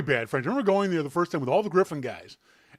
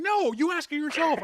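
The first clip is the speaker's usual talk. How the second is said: retold refusal; 12 semitones higher than usual. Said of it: "you were saying".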